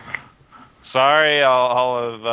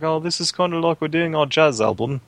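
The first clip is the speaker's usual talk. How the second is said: slightly higher mock British musician voice; British accent; 4 semitones higher than usual. A band doing their jazz album, in a mock British accent. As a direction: ham up a pompous British muso. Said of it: "Why is the band British all of a sudden?".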